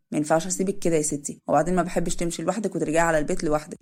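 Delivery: easygoing older man, lightly voiced; lightly voiced Adham.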